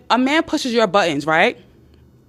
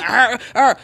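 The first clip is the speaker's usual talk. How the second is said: mock angry growl. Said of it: "he's getting upset, he's going".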